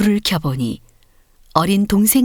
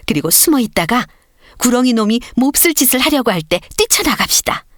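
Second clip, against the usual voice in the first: rallying call; 6 semitones higher than usual. Acted. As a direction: rouse the sparrows to fight the serpent. Sparrow leader rallies the others.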